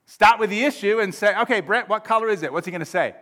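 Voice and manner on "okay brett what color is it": quick, raised-pitch question; brisk questioning. Acted. Mediator to one quarrelling friend, brisk question. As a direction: put it to him briskly.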